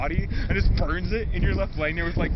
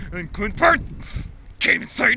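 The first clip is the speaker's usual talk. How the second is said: mock rant; 4 dB louder than usual. Dad ranting in story.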